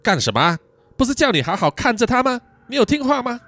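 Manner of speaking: sharp rebuke, moderately heated; angry scolding. Acted. Older brother berating Lawrence on entering, angry scolding. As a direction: scold him with restrained anger. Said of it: "Jimmy一进来就对Lawrence大骂".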